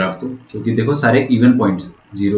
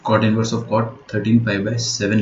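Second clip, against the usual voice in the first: slow dictation; slower than usual. Shown as a demonstration. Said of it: "लिख लो".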